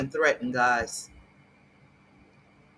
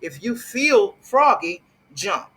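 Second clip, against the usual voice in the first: mock tough quote; 2 semitones higher, 6 dB louder, slower than usual. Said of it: "because he's telling Mister Larry Reed".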